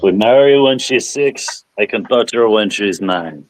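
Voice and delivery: mock Russian accent; lightly put-on Russian accent. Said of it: "Why did you say that in a, um, a Russian accent?".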